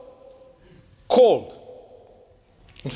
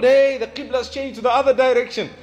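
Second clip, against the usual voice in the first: calling out an announcement; 4 semitones higher than usual. Retold or imitated. Caller announcing to praying companions.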